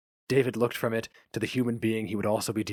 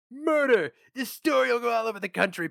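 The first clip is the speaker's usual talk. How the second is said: much higher, loud and thrilled; excited outburst; 14 semitones higher, 3 dB louder than usual. Acted. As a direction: bang the desk and crow over a scoop. Hammers desk, excited.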